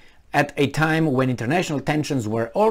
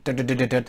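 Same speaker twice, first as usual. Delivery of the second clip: rapid, softer mouthed knocks; imitated knocking; 3 semitones lower, 6 dB quieter, much faster than usual. Showing what the knocking was, imitated knocking. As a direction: rattle off soft knocks by voice. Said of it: "that's the knocking".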